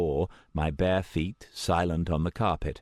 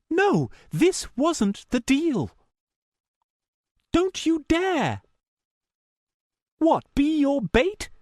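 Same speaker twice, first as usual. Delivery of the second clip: louder, heated female voice, biting words; angry; 4 dB louder than usual. A narrator's reading. Meredith arguing with the caller, angry and louder. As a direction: let the anger push through. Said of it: "she sounded scared and angry".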